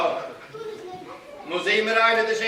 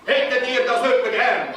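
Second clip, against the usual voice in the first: calling to audience. Acted. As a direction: call out to the children. Robber asks the children.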